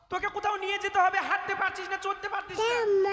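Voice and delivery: fast, high, half-crying shout; mock tearful shout. Husband wails fast at older wife. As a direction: wail it out fast like a fake lament. Teasing wife about carrying her.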